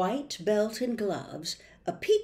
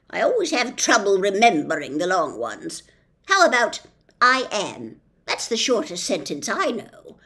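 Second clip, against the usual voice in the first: loud, slowish officious policeman; pompous policeman; 5 dB louder than usual. Acted. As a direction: lay down the law with bluster.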